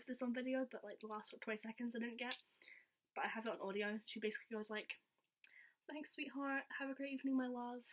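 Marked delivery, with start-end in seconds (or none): 5.9-7.8 affectionate sign-off a touch higher; lightly voiced tender farewell; sweet goodbye, higher.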